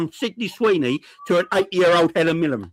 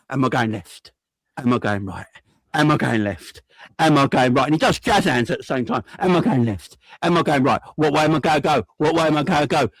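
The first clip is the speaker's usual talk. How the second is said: unsure winger, hammed-up lower; mock dithering footballer, a bit lower; Cody impression; 4 semitones lower than usual. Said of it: "this is my Cody impression".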